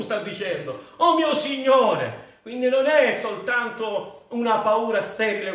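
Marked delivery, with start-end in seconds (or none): 1.0-2.3 slow cry, raised higher. Acted. Il servo grida al suo Signore, lento e acceso. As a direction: call out to God as if in need. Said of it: "portare a gridare al Signore".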